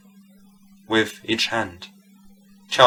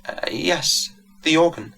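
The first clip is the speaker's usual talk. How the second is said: put-on soft Italian accent; 7 semitones higher than usual. A narrator's reading. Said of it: "soft Italian accent".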